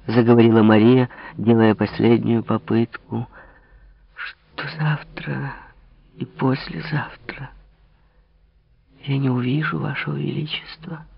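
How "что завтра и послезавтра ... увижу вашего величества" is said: whispered. Acted. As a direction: barely breathe the words. Marie's last attempt, whispered.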